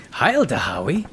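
rough mock German greeting; comic German accent; loose German accent. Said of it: "I'm doing a very loose German accent".

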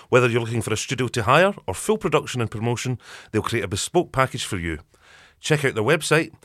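bright, steady radio ad delivery; sponsor ad read. Acted. Host reading the sponsor message to listeners, upbeat ad read. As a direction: sell the studio like a podcast advert.

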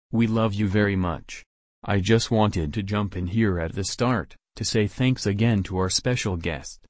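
stiff robot announcer; toy robot voice. Acted. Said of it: "I am Robot James".

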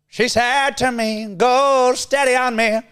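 slow, high, exaggerated British Isles accent; put-on British Isles accent. Setting a line to copy, exaggerated British Isles accent. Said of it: "the Irish and the Scottish".

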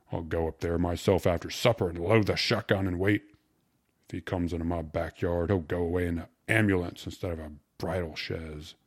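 lightly voiced stout, angry father; a hint of an irate parent; threatening father. Voices Riddle threatening the suitor.

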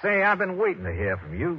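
Texas drawl. Acted. Detective posing as rich Texan to thief, Texas drawl. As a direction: play the eager rich Texan. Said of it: "using my best Texas drawl".

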